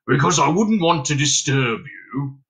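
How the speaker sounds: put-on furry creature; hairy creature voice. A narrator's reading. Hairy lodger apologising to Dunstan, creature voice. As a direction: fuss politely as a small hairy stranger. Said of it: "said the hairy voice".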